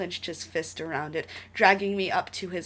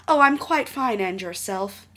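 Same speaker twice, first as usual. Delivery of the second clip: prim lady voice; 3 semitones higher, 6 dB louder than usual. Retold or imitated. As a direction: play a posh proper lady. Mocking prim tea talk.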